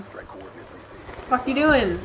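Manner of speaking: very slow, stretched incredulous question; drawn-out disbelief. Real, not acted. Gamer baffled by teammate's play, slow drawn-out disbelief. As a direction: drag each word out in disbelief. Teammate walks past enemy.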